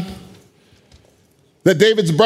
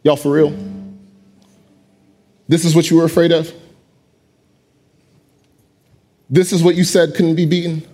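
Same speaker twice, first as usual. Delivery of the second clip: triumphant David. Acted. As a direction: stand over the giant, cool and sure. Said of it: "looks at his people like".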